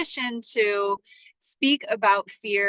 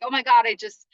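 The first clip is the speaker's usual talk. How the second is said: retold anxious thoughts. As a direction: spill the panic out quickly. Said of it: "anxiety came in".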